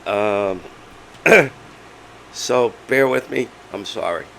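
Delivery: hoarse, strained laryngitis voice; voice giving out. Real, not acted. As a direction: talk through a lost voice. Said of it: "I have laryngitis".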